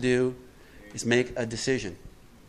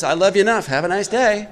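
mock God, laughing; 6 semitones higher, 6 dB louder than usual. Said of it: "God says".

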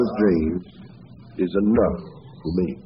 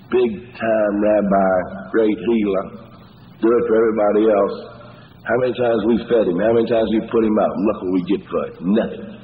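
mildly sarcastic grumble as resentful Martha; sarcastic resentment. Acted. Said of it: "Can't you hear the sarcasm".

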